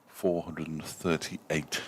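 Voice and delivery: a deliberate, drawn-out score read; slow careful number. Real, not acted. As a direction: spell the figure out slowly, number by number. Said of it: "you could have just said".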